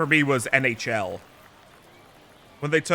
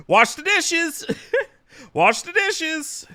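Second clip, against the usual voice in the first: mock nagging order; 13 semitones higher, slower than usual. Mocking wife's order, laughing.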